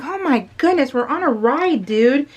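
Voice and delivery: acted annoyed complaint; mock exasperation. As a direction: play the fed-up fellow rider. Voices annoyed rider's reaction.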